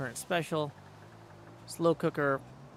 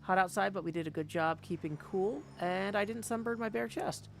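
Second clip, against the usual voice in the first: lightly voiced chat reader, pitched up and brisk; reading a viewer's message; 6 semitones higher than usual. Streamer reads Nola's Pride message to chat, lightly voiced and upbeat. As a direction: hand the viewer's words a cheerful lift. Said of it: "Nola says about the Pride event".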